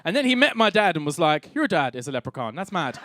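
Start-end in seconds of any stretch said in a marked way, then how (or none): 1.5-3.0 put-on Dublin accent. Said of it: "a guy from Dublin".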